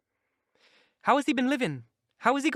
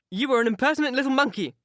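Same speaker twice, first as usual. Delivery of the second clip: quick, louder, higher burst of surprise; surprised exclaim; 5 semitones higher, 5 dB louder, faster than usual. A narrator's reading. Missus Linton to Isabella, exclaiming in surprise. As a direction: blurt it out, caught off guard. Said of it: "exclaimed Missus Linton in surprise".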